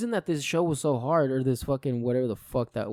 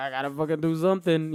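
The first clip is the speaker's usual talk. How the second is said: normal talking voice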